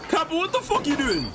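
shocked yell at Kappa. Real, not acted. Reacting again, louder higher.

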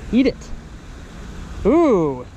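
usual speaking voice

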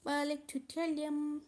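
echoey sound like a cave. Real, not acted. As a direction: voice echoing in the room. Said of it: "Ses yankı yapıyor".

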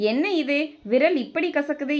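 mother jolted by the bitter taste, mildly voiced; startled mother. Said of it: "என்று அதிர்ந்தாள்".

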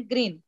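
ग्रीन said as "grin", with a brief vowel; short i. Shown as a demonstration. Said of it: "जी आर I N".

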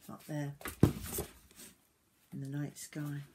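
gentle, measured storybook reading; story narration to children. A narrator's reading. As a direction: read it tenderly, with pauses.

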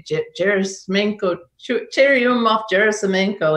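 put-on halting stab at a Russian accent; lightly imitated Russian pronunciation; attempted Russian accent. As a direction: try the names in a Russian accent. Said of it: "say it in a nice Russian accent".

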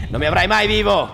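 comic bravado; defiant yell. Real, not acted. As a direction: shout defiance while fleeing. Fleeing enemy, defiant.

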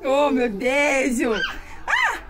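sudden high scream of fright; startled scream. Real, not acted. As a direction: shriek as if caught by surprise.

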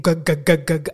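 stuck, repeated "g" syllables; staccato stammer, trailing away; imitated brother's stutter. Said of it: "he just kept saying".

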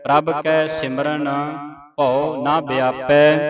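slow, measured sacred reading; scripture recitation. Shown as a demonstration. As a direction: intone each phrase with long final sounds.

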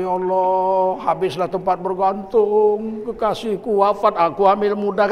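drawn-out imitation of a grieving wife; mock weeping lament. Preacher imitates the crash victim's pregnant widow, mock weeping lament. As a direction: lament slowly, only lightly acting the tears. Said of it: "Istrinya nangis-nangis".

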